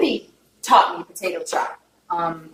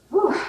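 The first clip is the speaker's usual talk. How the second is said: shaky exhale; 10 semitones higher than usual. Real, not acted. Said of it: "I almost cried on you guys".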